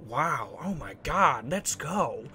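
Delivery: soft, lightly drawn-out celebrity impression; low-key impression of a film star's amazed wow; Owen Wilson. Gamer showing off his world famous impression, lightly imitated voice. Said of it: "Owen Wilson impression".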